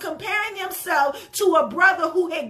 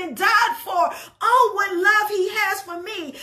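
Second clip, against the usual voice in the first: impassioned preaching; 3 semitones higher than usual. Acted. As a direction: climb into full worship fervour. Preaching builds to full force.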